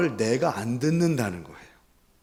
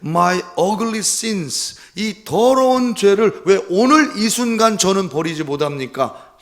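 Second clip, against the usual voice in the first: loud, high, pleading cry to God; a desperate, loud prayer of lament; anguished lament; 6 semitones higher, 7 dB louder than usual. Retold or imitated. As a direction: wail the confession out in anguish. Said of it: "이렇게 고백했다는 겁니다".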